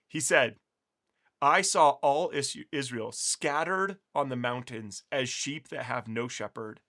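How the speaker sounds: slow, grave prophecy reading; scripture reading. Acted. Teacher reads Micaiah's prophecy to viewers, slow and grave. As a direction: read it slowly, fading at the end. Reads Bible passage aloud.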